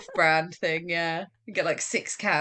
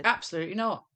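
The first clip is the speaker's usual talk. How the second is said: very close to the microphone; right on the mic. Real, not acted. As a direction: lips on the mic, firm refusal. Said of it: "pulled the mic, like, close to your mouth".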